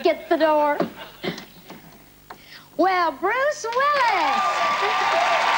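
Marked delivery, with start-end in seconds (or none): 2.8-5.5 surprised greeting. Acted. Host greets surprise guest at door.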